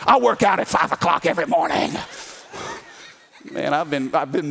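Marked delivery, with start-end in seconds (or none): 0.0-2.0 mock worship bravado. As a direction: brag like you're out-worshipping the kids. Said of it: "I'm like".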